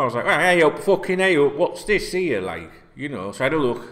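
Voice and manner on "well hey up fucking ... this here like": indignant. Retold or imitated. Retold indignant reaction to tweet.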